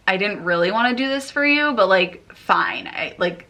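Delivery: mock a begrudging favour with a shrug in the voice; grudging. American explaining what "that's okay" implies, grudging. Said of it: "it means, like".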